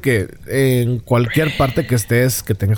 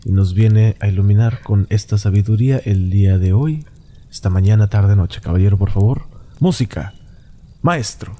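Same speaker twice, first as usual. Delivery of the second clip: lower, hammed-up announcer build-up; mock grand announcer; 3 semitones lower than usual. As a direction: introduce the guest like a cheesy radio host. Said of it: "la voz que rascaricia".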